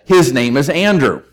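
mildly adamant retold declaration. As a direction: quote a mother who will not budge, understated. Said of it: "very adamantly said".

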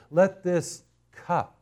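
"cup" drawn out and set apart by a pause; slow down and land firmly on "cup", then stop; slow, weighty "cup" before a pause; stress on cup. Shown as a demonstration. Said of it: "I wanna emphasize the word cup".

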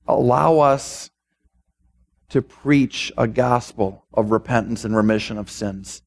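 measured pastoral prayer with long pauses. Real, not acted. Preacher asking God to use the congregation in his harvest, prayerful. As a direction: pray aloud, phrase by phrase, unhurried at the ends.

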